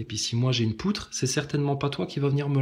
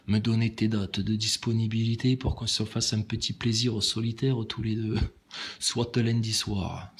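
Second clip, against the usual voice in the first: put-on Toulouse accent; 3 semitones lower than usual. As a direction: put on a Toulouse accent for a mock-flirty date proposal. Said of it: "je vais prendre mon accent du Sud, mon accent toulousain". (accent toulousain grave, faussement séducteur)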